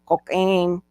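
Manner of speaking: "Cocaine" said as koh-KAH-ee-neh with Spanish vowels; imitating a Spanish speaker saying "Cocaine"; Spanish-style cocaine. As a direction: stretch "Cocaine" the Latin American way. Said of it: "the way they say it".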